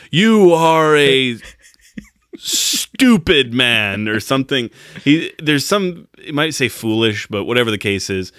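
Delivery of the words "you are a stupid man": high, very slow, drawn-out judge voice; a judge stretching out each word of his scorn; judge scolding. Retold or imitated. Judge drags out an insult to a foolish man, slow and high. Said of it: "looks at Bruce Davidson like".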